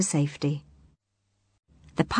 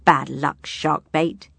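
snorting; 3 semitones lower, slower than usual. Acted. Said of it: "he snorted".

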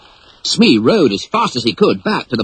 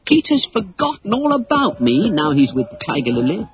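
a touch of anger; 7 semitones higher than usual. Acted. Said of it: "she said to herself angrily".

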